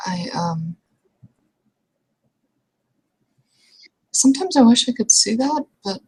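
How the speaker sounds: whispered, breathy confession. Acted. Character whispering a private wish to her companion. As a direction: let it slip out in a hushed voice.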